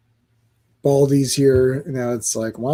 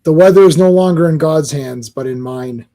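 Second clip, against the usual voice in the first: movie line quote; 4 dB louder than usual. Retold or imitated. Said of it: "You know what that's from?".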